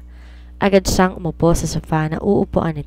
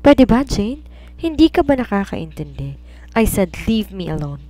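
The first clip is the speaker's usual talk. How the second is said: angry; 4 semitones higher than usual. Acted. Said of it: "Galit na galit na sabi nito".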